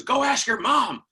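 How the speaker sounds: loud, high, drawn-out dad voice; dad's brush-off. Retold or imitated. Dad sending his son to mom, exasperated brush-off. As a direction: send the kid off loudly.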